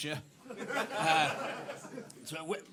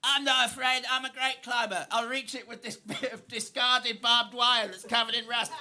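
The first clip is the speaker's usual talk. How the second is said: put-on Cockney boy Jimmy; 3 semitones higher than usual. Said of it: "And Jimmy's like".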